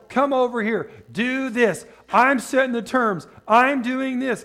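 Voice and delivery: a hint of a domineering devil; mildly bossy commands. Devil dictates terms to the believer, mildly bossy commands. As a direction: lay down the terms, firmly. Preacher voices devil giving orders.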